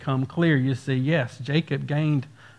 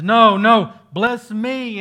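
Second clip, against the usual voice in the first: loud, raised plea without tears; insistent begging, lightly acted; retold weeping plea; 6 semitones higher, 8 dB louder, slower than usual. Esau begging Isaac to bless him, half-acted weeping plea. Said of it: "Esau wept".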